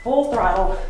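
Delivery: loud push to go all out; fired-up trainer call; coach's shout. Acted. Coach pushing class to max.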